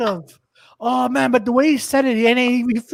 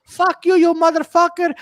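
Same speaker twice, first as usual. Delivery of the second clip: mock angry yell; 7 semitones higher, 5 dB louder than usual. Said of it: "He goes".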